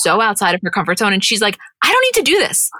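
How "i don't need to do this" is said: high-pitched imitation of an indignant refusal; mock protest. Podcaster mimics Kim refusing improv, in high mock protest. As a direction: retell her balking, pitched well up.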